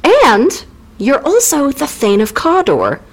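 slow, singsong introduction from comic witches; chirpy witches. Acted. Witches introducing themselves to Macbeth, slow singsong. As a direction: draw it out with swooping emphasis. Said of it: "so the witches go".

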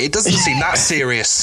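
slow deadpan repeat; deadpan mockery. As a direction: drag it out with dry sarcasm. Third mocking repeat.

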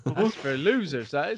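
slow, talking through a mouthful; cheeks stuffed full. Pretend. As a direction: speak with cheeks packed with food. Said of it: "see how many marshmallows you can put in your mouth and still speak".

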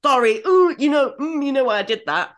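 acted-out oops, apologising to a friend; flustered apology. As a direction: blurt it out, mortified at your slip. Retells own flustered apology to friend.

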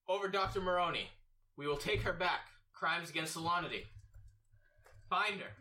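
loud, high-pitched official pronouncement; Captain Vareska. Acted. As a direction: command it like a captain making an arrest. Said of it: "Captain Vareska goes".

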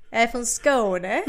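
slow, badly faked Scanian accent; skånska attempt. Shown as a demonstration. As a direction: try Scanian Swedish, laughing at yourself. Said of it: "Du ser, jag kan inte". (trevande, dålig skånska)

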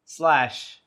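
slow, pausing between each chunk; patient slow repetition, trailing off at the end; slow, deliberate repeat. Shown as a demonstration. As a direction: spell it out piece by piece. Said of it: "Could you repeat it one more time?".

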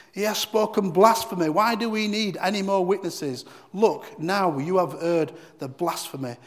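high, loud, outraged cry of blasphemy; the high priest accusing Jesus before the council; outraged accusation. Acted. High priest to council, loud outraged accusation.

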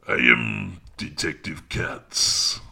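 slow, measured French accent. Shown as a demonstration. Comedian demonstrates his French detective for the listener, slow French accent. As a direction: try out an authoritative French detective voice. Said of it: "go with the French accent".

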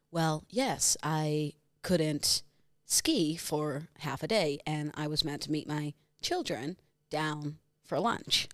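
put-on soft, lightly American-accented Gwyneth; mock Gwyneth Paltrow. Quoting Gwyneth in her ski trial, lightly American voice. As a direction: drawl it out like an entitled star. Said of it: "I just went method acting".

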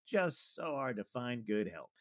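slow, put-on sympathy; mock-weary relating to a colleague; fake commiserating. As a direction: draw it out as if sharing the burden. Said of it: "lying and relating to that".

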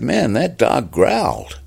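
slow, high American amazement; David Fincher. Acted. Director conceding to actor, slow awed American accent. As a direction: stretch it in an impressed American accent. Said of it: "first American accent I could, comes to mind".

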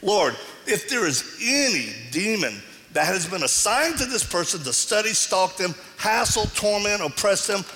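fervent deliverance prayer, rising in command. Retold or imitated. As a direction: pray it out with authority, like binding a spirit. Retells his deliverance prayer.

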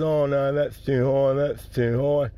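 put-on cleft-lip speech impediment; cleft palate voice. Customer refusing the nut seller's price, cleft palate voice. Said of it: "This bloke got a cleft palate and a hair lip".

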